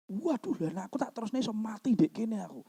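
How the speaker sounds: quick, hushed mock panic. Robber realising he could die here, mock panic. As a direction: fret fast under your breath, hammed-up.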